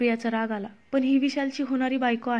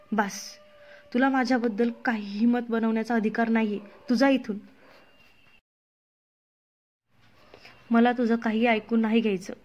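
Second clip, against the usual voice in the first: angry shout. Acted. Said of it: "Amruta रागात ओरडली".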